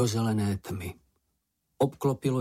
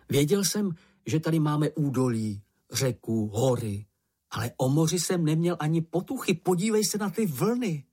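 lightly voiced eager youngster, pitch lifting; joyful Mumínek; 5 semitones higher than usual. Mumínek shows his companion the sea, lightly voiced delight. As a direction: share your delight, lifting towards the end.

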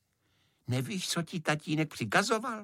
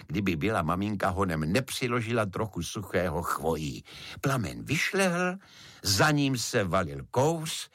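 ordinary delivery

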